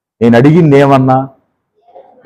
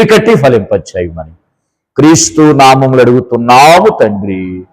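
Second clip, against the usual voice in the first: earnest spoken prayer to God. Real, not acted. Opening prayer before the sermon.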